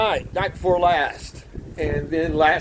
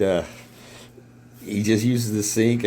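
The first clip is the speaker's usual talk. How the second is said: normal talking voice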